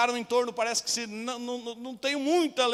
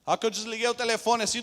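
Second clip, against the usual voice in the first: usual speaking voice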